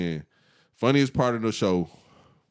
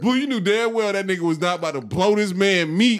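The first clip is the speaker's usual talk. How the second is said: laughing; 12 semitones higher, 6 dB louder than usual. Real, not acted. Teasing friend, laughing.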